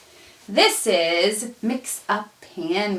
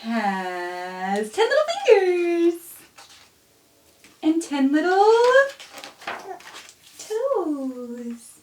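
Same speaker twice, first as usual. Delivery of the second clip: tender reading; 3 semitones higher, slower than usual. Acted. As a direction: read it lovingly to your own baby. Softer tender verse.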